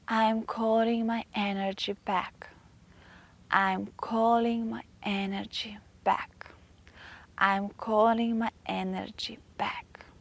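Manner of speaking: measured, evenly intoned mantra with gaps between repeats; meditative affirmation; spoken affirmation. Acted. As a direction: recite it steadily for a class to repeat.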